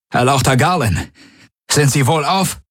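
worried creature guard addressing her lord; alien guard voice. A narrator's reading. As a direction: ask after the lord with strained concern. Aur Tari addresses the Kronda.

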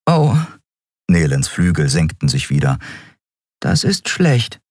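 hohe, kleinlaute Figurenstimme; enttäuscht einsehen; enttäuschte Nelen. Acted. (hoch und kleinlaut)

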